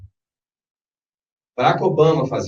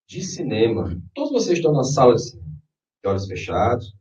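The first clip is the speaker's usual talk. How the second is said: right in your ear. Acted. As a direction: lead them gently into the scene. Guided imagery begins.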